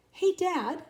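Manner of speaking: high, loud call upward. Acted. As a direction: call out to Dad above you. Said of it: "she called up to him".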